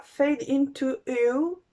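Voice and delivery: English title in a French accent. Real, not acted. Vlogger naming the palette she bought, French-accented English. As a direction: slowly pronounce the English name with a French accent. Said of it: "mon accent anglais magnifique".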